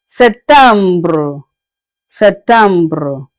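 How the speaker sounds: Septembre with French vowels and a rolled ending; French pronunciation. Shown as a demonstration. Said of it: "Should I take it again?".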